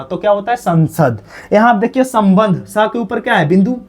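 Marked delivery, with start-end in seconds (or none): 0.6-1.2 संसद said as "san-sad" with a clear n; careful n sound. Shown as a demonstration. Teacher shows the dot read as n, careful pronunciation. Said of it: "हम लोग क्या पढ़ते हैं".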